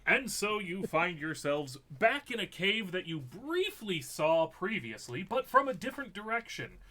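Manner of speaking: measured scene-setting with lifted key phrases; game master narration. Acted. Game master returns players to a cave, storyteller narration.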